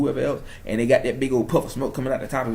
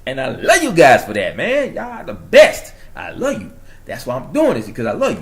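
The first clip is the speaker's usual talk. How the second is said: hyped-up New York accent, bursting out loud; 7 dB louder than usual. Real, not acted. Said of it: "my New York accent is coming out".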